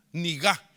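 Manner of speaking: "Nigá" with the stress on the final A; nigá, stress on the last a. Shown as a demonstration. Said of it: "Le faltó el acento en la A". ("Nigá" con acento en la A final)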